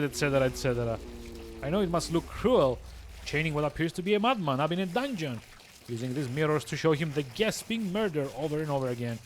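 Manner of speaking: a bored, superior villain gloating. Acted. Reads villain dialogue aloud.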